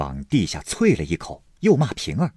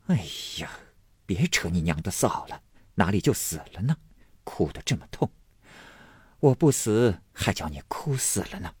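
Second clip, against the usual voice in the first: softer, lightly chiding voice; teasing scolding; 4 dB quieter than usual. Acted. Sick mistress chiding her weeping maid, lightly teasing. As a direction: gently scold through a faint smile. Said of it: "凤姐笑道".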